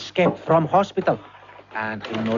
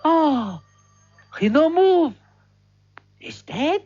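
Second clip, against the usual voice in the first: put-on broken English with a heavy Spanish accent; bumbling Spanish waiter recounting chaos; 2 semitones higher than usual. Waiter narrates fire chaos to listeners, heavy Spanish accent.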